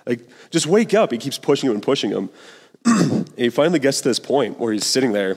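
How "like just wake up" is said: pleading cub. Retold or imitated. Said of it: "I was crying about this".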